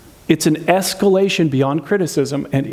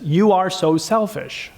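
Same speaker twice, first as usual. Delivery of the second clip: mild accusing; slower than usual. Shown as a demonstration. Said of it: "The criticism is that last sentence".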